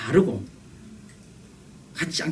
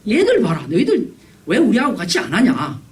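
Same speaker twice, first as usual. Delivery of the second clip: put-on higher-pitched childish complaint; mock-indignant kid calling others out; acted reproach; 4 semitones higher than usual. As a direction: take the playmates to task. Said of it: "비난했다라는 것입니다".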